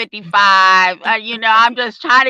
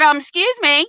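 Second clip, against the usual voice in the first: sassy; 5 semitones higher than usual. Retold or imitated. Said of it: "that's exactly what I did".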